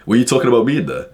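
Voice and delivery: low, hard and menacing; deep angry voice. Retold or imitated. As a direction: square up to him. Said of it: "using, like, my deep, angry voice".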